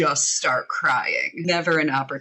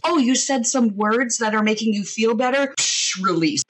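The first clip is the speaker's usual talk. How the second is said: higher, playful scoffing voice; mock body voice; 7 semitones higher, 4 dB louder than usual. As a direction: voice the body dismissively. Voicing her body's reaction.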